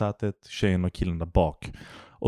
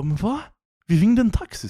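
high falsetto bewildered whine; puzzled drunk woman asking who pays, in a squeaky high voice; confused drunk woman; 13 semitones higher, 3 dB louder than usual. Retold or imitated. Mimicking the confused drunk passenger, high falsetto. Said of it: "Hon bara".

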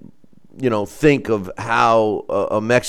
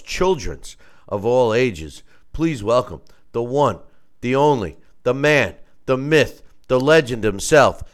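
ringmaster; 3 dB louder than usual. Acted. Introducing guest like ringmaster.

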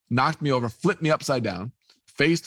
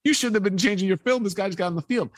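half-acted kid's complaint, voice raised high; retold kid yelling; 8 semitones higher than usual. Kid scolding his photographer dad, mock yelling. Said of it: "his kid screaming at his dad".

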